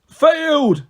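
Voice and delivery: high, loud triumphant shout; gleeful yell. A narrator's reading. Cyclops yelling in delight at beaten heroes. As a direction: crow it out in glee. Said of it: "he yelled gleefully".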